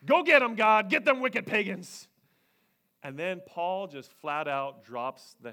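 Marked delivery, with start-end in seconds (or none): 0.1-2.1 mock cheering. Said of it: "They're like".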